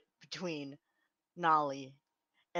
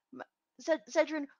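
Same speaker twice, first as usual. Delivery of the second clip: Mavar's voice; 8 semitones higher, 3 dB louder, faster than usual. Acted. Mavar ushers Zedrin away, voiced.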